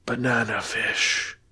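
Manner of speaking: slow, soft, faraway murmur of two words; dazed murmur. Acted. Shot soldier mumbling to his friend, slow and soft. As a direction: let it drift out, barely there, like he's not present.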